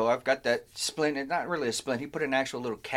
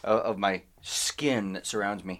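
sensual; 5 semitones lower than usual. Pretend. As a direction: lightly purr it, half joking. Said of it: "I said that so sensually".

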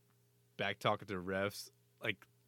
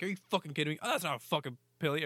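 higher, fast indignant rant; mock outrage; 7 semitones higher, 4 dB louder, much faster than usual. Coach yelling at the referee, mock outraged. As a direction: play the furious coach yelling at refs. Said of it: "He's like".

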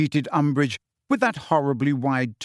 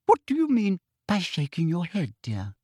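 testy; 4 semitones higher than usual. Acted. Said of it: "said Umbridge in a testy voice".

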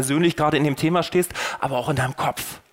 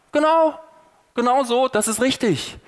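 mock cheering; 8 semitones higher than usual. Preacher voices people cheering the killing, eagerly approving. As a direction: cheer it like the crowd agreeing.

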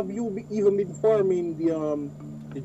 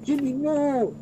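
higher scolding no no no; scolding boss voice; 6 semitones higher than usual. Retold or imitated. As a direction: shoo Jimmy off like a boss. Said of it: "they saw ... and was like".

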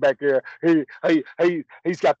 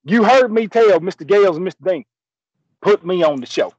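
hollered country showman's proclamation, raised pitch; loud triumphant announcing; 4 semitones higher, 5 dB louder than usual. Acted. Willie kicked off the show, now back on air, loud crowing. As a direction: announce your takeover at full voice.

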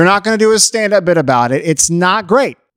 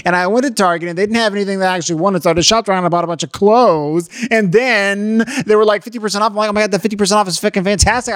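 hammed-up gossip running on and on; lightly mocked chatty girlfriend monologue; rambling girlfriend. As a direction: pile up trivia without stopping. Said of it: "you should be like".

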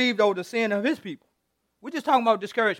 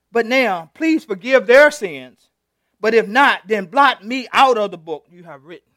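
louder, slow plea with "their" leaned on; angry prayer of a frustrated leader; mad plea; 4 dB louder than usual. Acted. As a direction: demand it through anger, slowly. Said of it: "See, you mad when you say".

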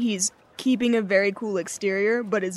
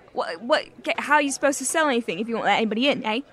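Val arguing; 3 semitones higher, 6 dB louder than usual. Acted.

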